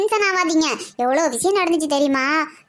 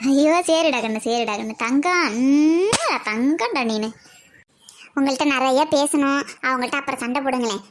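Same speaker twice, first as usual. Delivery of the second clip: tender coaxing; 4 semitones lower than usual. Acted. Aunt soothes the child.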